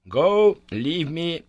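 high, forceful command; terribly excited. A narrator's reading. Professor ordering Harry to leave him, terribly excited. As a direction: send them away, pitched high. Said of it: "was terribly excited".

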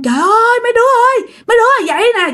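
high-pitched mock cry for help; acted-out call to wake the household; alarmed yelling. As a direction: call out urgently, pitched well up. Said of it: "Ông ngoại la quá trời luôn".

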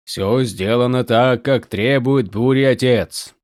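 slow, resonant ancient spirit voice; slow booming otherworldly being. Acted. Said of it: "ответил мраморный гулким голосом".

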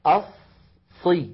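slow "الصي", first s sustained; doubled sad. Shown as a demonstration. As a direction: hold the s of "الصي" before releasing it. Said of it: "الصاد الأولى ساكنة". (إطالة الصاد الساكنة في "الصي")

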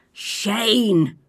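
loud call from the wings; teacher calling from offstage. Acted. Teacher calling from the wings to the child, loud call. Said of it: "came the teacher's disembodied voice from offstage".

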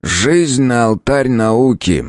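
slow, solemn remark. Acted. Professor solemnly honours Leblanc's sacrifice, slow. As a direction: say it slowly like an epitaph.

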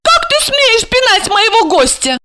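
very high outraged squeal; wife shrieking at her husband; indignant shriek. A narrator's reading. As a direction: squeal it in fury. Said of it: "возмущённо взвизгнула".

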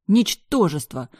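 cursing in rage; furious insult. Acted. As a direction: spit the word out. Cursing Black.

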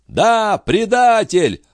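high, drawn-out mob cry; a hundred voices calling traitor; crowd shouting. A narrator's reading. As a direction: yell it as the angry crowd. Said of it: "подхватила сотня голосов".

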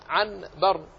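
عنبر with a clear n before the b; original n sound. Shown as a demonstration. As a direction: say عنبر as 'an-bar, noon kept distinct. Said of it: "هي أصلها عن".

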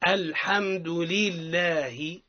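very slow لله with a clear kasra and a long lam; drawn-out model. Shown as a demonstration. Teacher gives the class لله to repeat. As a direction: stretch لله out for them to repeat. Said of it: "نعاودوا مع بعضنا".

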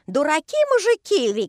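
high, loud foreign-sounding yell; shouting. A narrator's reading. Englishman Kinga shouting insults at the workers, loud and high. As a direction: bellow the insult in broken Russian. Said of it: "и кричит".

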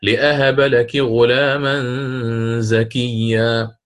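slow chanted recitation with لأهب; Qur'anic recitation. Shown as a demonstration. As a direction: recite لأهب with a clear hamza. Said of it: "في قوله تعالى". (ترتيل لأهب بالهمز)

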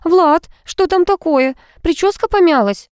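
put-on fretting girlfriend; worried girlfriend voice; anxious girl. A narrator's reading. Vika frightened, questioning Vlad.

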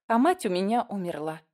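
plain reading voice

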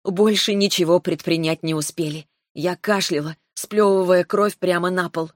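plain reading voice

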